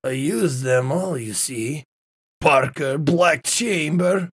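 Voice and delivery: put-on low Russian-accented villain. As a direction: drop low into a lightly hammy Russian accent. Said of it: "I can do a Russian accent".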